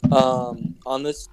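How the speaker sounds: choppy audio cutting out. Real, not acted. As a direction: voice breaking up on a bad mic. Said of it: "you keep cutting out, man".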